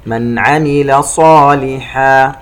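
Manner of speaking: slow chant, clear n in "من" before "عمل"; throat izhar. Shown as a demonstration. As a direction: sound "من" cleanly, stretch "صالحا". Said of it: "حرف العين إظهار حلقي". (ترتيل بإظهار "من عمل")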